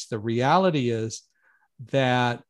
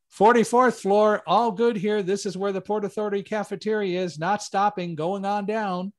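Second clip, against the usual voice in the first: higher called-out floor report; calling up the stairs; 7 semitones higher than usual. Retold or imitated. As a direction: shout the all-clear upward. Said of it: "he was shouting up to me".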